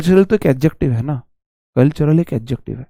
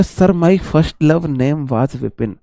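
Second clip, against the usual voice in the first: slow reading out; 3 dB quieter, much slower than usual. Retold or imitated. Teacher reads comment aloud again.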